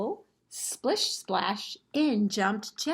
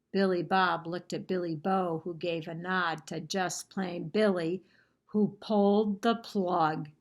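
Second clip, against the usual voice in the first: story narration. A narrator's reading. Librarian reading a picture book to children, lively storytelling. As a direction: tell the story to the class with gusto.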